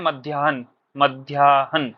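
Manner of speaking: मध्याह्न sounded as "madhyaa-han", drawn out on repeat; correct pronunciation. Shown as a demonstration. Teacher models the reading for students, carefully pronounced. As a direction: read मध्याह्न with an audible h before n. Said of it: "तो इसको पढ़ते क्या है".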